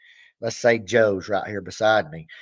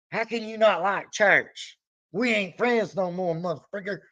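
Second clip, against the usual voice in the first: mock indignation; 7 semitones higher than usual. Fan ending friendship with Joe at the concert, hammed-up and higher. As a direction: play the betrayed superfan, overdone.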